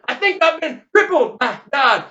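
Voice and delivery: high, loud wail; hollered complaint. Acted. Deafened Leonard at the funeral, hollered complaint. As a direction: holler it like an injured man.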